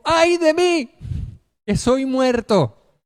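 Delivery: high slow anguished cry; terrified cry. Acted. Preacher reliving Isaiah's cry, high anguished wail. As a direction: wail it as a man undone. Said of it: "Isaías dijo".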